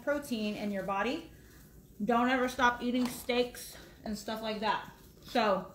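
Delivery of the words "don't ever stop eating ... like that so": talking while chewing; words round a mouthful; mouth full. Real, not acted. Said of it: "I know it's rude to talk with my mouth full".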